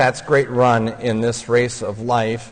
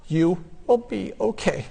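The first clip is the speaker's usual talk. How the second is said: gentle reassurance; 5 semitones higher, 6 dB quieter than usual. Retold or imitated. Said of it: "gently said".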